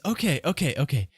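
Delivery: high-pitched, worried merchant urging haste; flustered accused merchant. Acted. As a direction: give in, then fret rapidly about the consequences.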